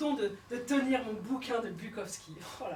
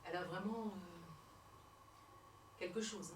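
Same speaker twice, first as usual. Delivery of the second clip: softer, lightly voiced cigar-smoking producer; big producer; 4 semitones lower, 12 dB quieter than usual. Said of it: "Avait dit le gros producteur".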